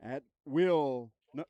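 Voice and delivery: stadium announcer calling the lineup; lightly booming PA read. Acted. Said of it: "I wanna use my P A voice".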